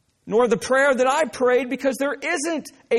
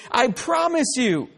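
slow, weighty "I promise you."; emphatic promise. Acted. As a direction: draw out "I promise you." as a solemn assurance. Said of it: "what he's doing is saying emphatically".

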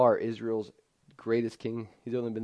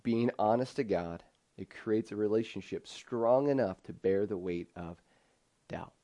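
repeated slowly for emphasis; key line slowly. Shown as a demonstration. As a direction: let each word of the key line land. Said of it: "I'll say that again".

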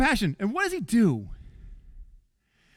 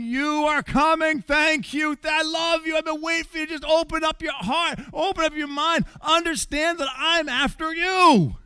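the father tells his lost son he is coming for him, fervent; father's fervent pursuit; 4 semitones higher than usual. Acted. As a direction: plead with passionate insistence. Voicing father's loving pursuit.

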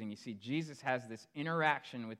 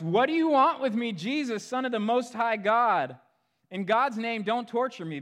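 loud, much higher pleading shout; demon's shout; 9 semitones higher, 10 dB louder than usual. A narrator's reading. Possessed man shouting at Jesus, loud high plea. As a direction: bellow it like a tormented man begging for mercy. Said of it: "and he shouts".

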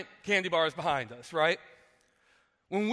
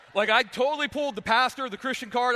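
excited; 5 semitones higher, 4 dB louder than usual. Real, not acted. Laughing at his own trick.

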